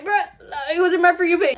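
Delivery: high, loud, laughing wail; laughing mock protest. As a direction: protest through laughter, hammed up. Mock protest told through laughter.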